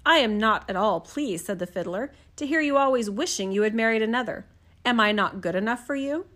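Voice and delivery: soft, even fairy-tale reading; gentle storyteller voice; storybook narration. A narrator's reading. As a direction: read it like a bedtime story. Reads a fairy tale aloud.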